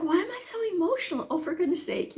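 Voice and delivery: high, quick, flustered self-scolding; retold self-exasperation. Mother chides herself for crying, flustered. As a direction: rush it out high, fed up with yourself.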